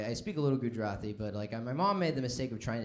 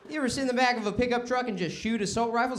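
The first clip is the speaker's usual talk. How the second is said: redneck buddy; 10 semitones higher, 6 dB louder than usual. Acted. Redneck asking Ahmed.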